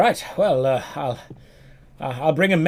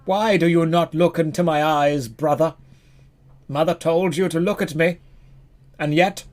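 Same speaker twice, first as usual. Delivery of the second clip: mock tragic plea; 2 semitones higher than usual. Streamer voicing a faceless sibling, mock heartbreak. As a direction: lay the hurt on thick, pleading. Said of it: "I'm crying because it's so beautiful".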